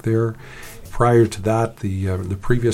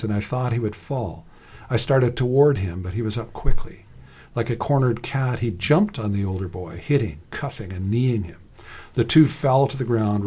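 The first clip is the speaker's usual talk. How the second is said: measured story reading voice; story narration. A narrator's reading. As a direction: read the fight as a told story.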